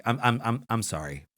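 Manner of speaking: lightly imitated low, halting apology; deep voice. Clown breaking off to apologize, deep halting voice. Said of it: "deep voice. He's like".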